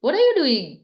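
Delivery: mock scolding of a student. Shown as a demonstration. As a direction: tell him off like an annoyed elder sister. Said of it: "अगर मैंने डांट के बोल दिया".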